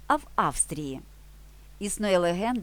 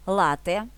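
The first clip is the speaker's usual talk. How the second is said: "Лате" stressed on "Ла", short "т"; наголос на "Ла" у "Лате"; stress on first syllable; 4 dB louder than usual. Shown as a demonstration. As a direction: hit "Ла" in "Лате", no long "т". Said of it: "Вимовляємо з наголосом на перший склад".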